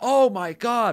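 mock loud moan.

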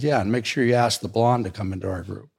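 ordinary talk, nothing marked

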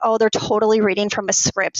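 normal talking voice

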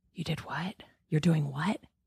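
very quiet, hushed stage whisper. Telling a story, the speaker repeats their own earlier words: retelling a stage whisper. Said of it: "it was like a stage whisper".

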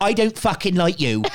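accent of Devon. Imagining someone picking a fight, spoken in a put-on Devon farmer accent. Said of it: "absolutely farmer".

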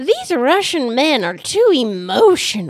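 put-on over-the-top granny caricature, high and loud. Retelling a conversation with your grandmother about a show, overblown Grandmommy impression. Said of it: "my impression of Grandmommy is totally overblown".

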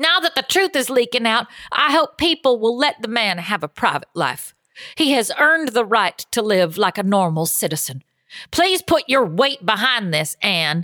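put-on Southern accent. Reading a fan's letter to an advice column aloud: southern accent. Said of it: "I'm gonna give this one a Southern accent".

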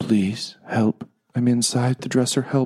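high, slow, pleading, begging tone. Voicing someone inside a dresser calling for help: begging for help. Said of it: "You hear a voice from inside that says".

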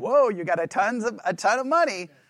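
ironic, sarcastic, mock-praising tone. Showing how they'd answer a little kid bragging about ten cents, sarcastic. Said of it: "I would use it in a sarcastic way".

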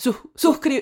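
Venezuelan Spanish accent. Saying the Spanish word for subscribe on a podcast, very Venezuelan pronunciation. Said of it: "That's my very Venezuelan way of saying it".

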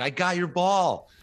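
very high, stretched-out, drawn-out holler, acted out. Telling a golf story, the speaker quotes a man shouting about his ball, retelling a yell. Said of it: "then he's yelling".

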